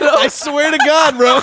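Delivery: slow, laughing oath; half-laughing insistence. Real, not acted. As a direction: swear it while cracking up.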